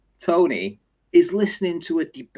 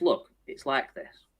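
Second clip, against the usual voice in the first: mock stern judge; 3 semitones higher, 3 dB quieter than usual. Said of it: "He says".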